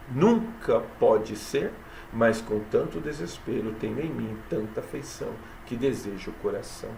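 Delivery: measured recitation of verse; poem reading. Acted. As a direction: read the poem aloud, unhurried. (leitura de poema, pausada)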